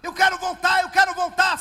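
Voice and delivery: loud, pleading, high cry to go back; desperate shout. Retold or imitated. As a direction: cry out loud like a man stuck in the mud. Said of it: "E ele gritava".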